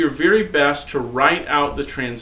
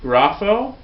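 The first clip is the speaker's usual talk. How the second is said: vocab word called out; 5 semitones higher, 5 dB louder than usual. Shown as a demonstration. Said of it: "memorize these vocabulary words".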